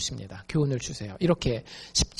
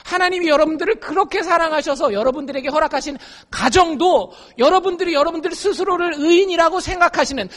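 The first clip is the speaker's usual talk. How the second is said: usual speaking voice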